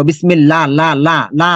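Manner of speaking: বিসমিল্লাহ and লা said thin with a long a; light la. Shown as a demonstration. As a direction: repeat লা light and clear. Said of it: "ল হবে না, লা হবে".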